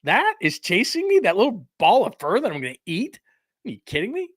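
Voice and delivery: lightly voiced bear, astonished and high; incredulous bear. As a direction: play the bear stunned that a fluffball chases him. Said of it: "bear coulda turned around and went".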